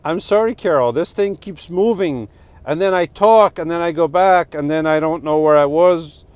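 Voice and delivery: flustered apology. Real, not acted. Flustered apology to commenter Carol.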